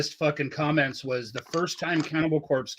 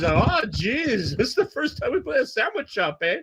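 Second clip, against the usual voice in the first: put-on Quebec accent; 9 semitones higher than usual. Host retells the singer's sandwich-shop joke in a Quebec accent. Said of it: "funny in between songs".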